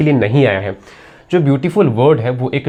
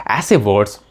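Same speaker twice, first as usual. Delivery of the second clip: whisper; 5 semitones lower than usual. Real, not acted. Teacher explaining adjective meaning.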